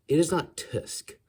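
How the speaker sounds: mock indignation. Mock indignation over the word.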